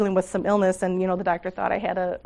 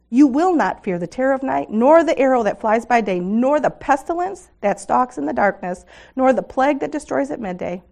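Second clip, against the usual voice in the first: fervent, swelling psalm reading, loud peaks; scripture reading; 4 dB louder than usual. Acted. Speaker reading Psalm 91 to the women, fervent and swelling. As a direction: proclaim the promises as you read.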